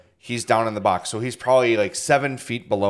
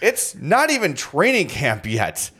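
incredulous; 6 semitones higher, slower than usual. Real, not acted. Disbelief at a smelly player.

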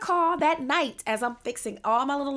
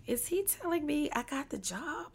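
laughing disbelief; 6 semitones higher, 7 dB quieter than usual. Retold or imitated. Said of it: "in my mind, I'm thinking".

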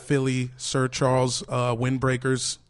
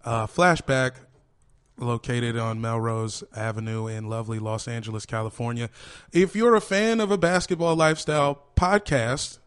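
ad read; 3 semitones higher than usual. Acted. Reads sponsor ad.

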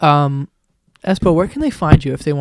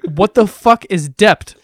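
louder, slow exasperated demand; 3 semitones higher, 5 dB louder, slower than usual. Retold or imitated. Retelling how he confronted his friend's wrong word, exasperated. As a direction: demand it slowly, saying "debt" as "dept". Retold quarrel over mispronounced word.

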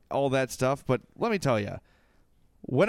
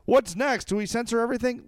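higher-pitched mimicked indignation; mock an upset fan, pitched up; imitating indignant fans in a raised pitch; angry fans; 6 semitones higher than usual. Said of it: "a lot of angry people".

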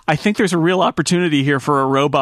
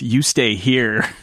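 stern robot voice; 4 semitones lower, much slower than usual. Retold or imitated. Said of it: "the robot says".

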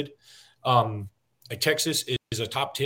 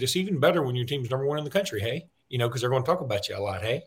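fast, lightly put-on Canadian accent with tag hey; mock Canadian accent; faster than usual. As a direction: toss in a playful Canadian hey. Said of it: "I'm talking like I'm a Canadian".

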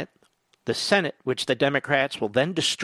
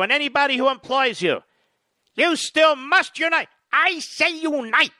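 hammed-up German accent climbing higher; bad German accent; 6 semitones higher, 3 dB louder than usual. Host mocks Biden's supporters in a bad German accent. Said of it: "I don't do a very good German accent".

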